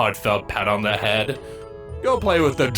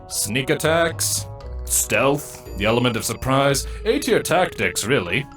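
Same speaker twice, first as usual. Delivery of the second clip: scoffing; 4 semitones higher than usual. Acted. Older broodmate scoffing at the accusation of foul play. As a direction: throw the accusation back scornfully. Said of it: "I scoff".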